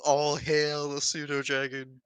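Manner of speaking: slow, loud mock cult acclaim; lightly voiced devotee hailing a deity; worshipping cultists. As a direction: proclaim it slowly, like a mock worshipper. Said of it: "Everybody else over here is just kind of like".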